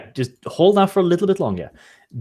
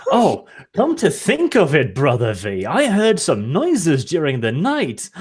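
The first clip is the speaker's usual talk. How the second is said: slow feigned recollection; slower than usual. Acted. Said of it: "I'm like".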